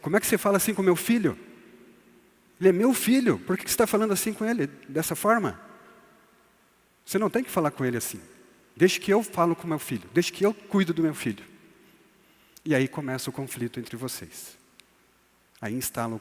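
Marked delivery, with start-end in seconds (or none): 0.0-11.4 bronca indignada, mais alta e aguda, rápida; cônjuge irritado. Retold or imitated. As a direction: defender o próprio filho com raiva, acelerando. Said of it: "a tua esposa ou teu marido vai falar pra você". (esposa reclama ao marido sobre o filho, em tom indignado e rápido)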